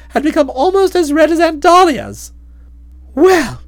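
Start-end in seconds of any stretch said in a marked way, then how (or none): 3.2-3.6 exclaiming. Acted. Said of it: "she ejaculated".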